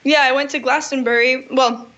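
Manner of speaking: talking while eating blueberries; words round a bite of berries; mouth full. Real, not acted. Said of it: "I'm eating blueberries".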